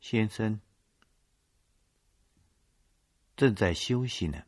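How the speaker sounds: chin up, a touch haughty. Acted. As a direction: look down on them politely. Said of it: "翘着下巴说". (翘着下巴，略带傲慢)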